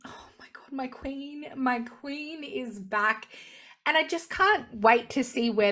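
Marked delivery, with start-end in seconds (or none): 0.1-3.3 breathless awed whisper, slowing down; excited whisper. Real, not acted. A fan greeting Carol's return, an awed giddy whisper.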